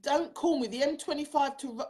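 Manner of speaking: lightly imitated Welsh accent; bad Welsh accent. Host quoting her friend from Wales, in a bad Welsh accent. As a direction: have a clumsy go at a Welsh accent. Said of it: "that's a shit accent".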